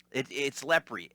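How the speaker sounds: "Lepre" said slowly, two syllables, hard stop on the final E; correct pronunciation. Shown as a demonstration. Host slowly demonstrates how "Lepre" is pronounced. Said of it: "That's a hard stop on that E".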